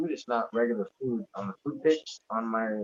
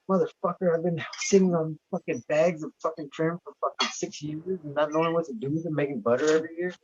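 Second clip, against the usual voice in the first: worked-up rant; 5 semitones higher than usual. Real, not acted. Exasperated at his own ignorance.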